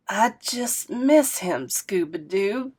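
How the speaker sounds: slow, creaking grandma voice, close to tears; a hint of a creaky, grieving grandma. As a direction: let the voice creak like a rusty hinge as she misses him. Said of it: "with a creak in her voice".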